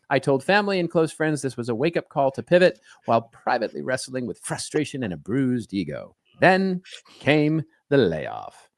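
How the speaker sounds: lightly voiced vintage bulletin reader; a hint of newsreel drama, slowing for the finish; old-timey radio announcer. Host reading an article's sad turn, lightly as an old-timey announcer. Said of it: "say it like an old-timey radio announcer".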